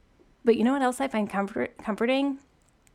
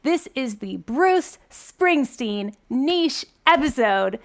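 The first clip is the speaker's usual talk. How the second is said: slow hyped announcer voice, louder; drawn-out hype announcer; monster truck ad; 3 semitones higher, 4 dB louder, slower than usual. Pretend. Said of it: "monster truck voice right now".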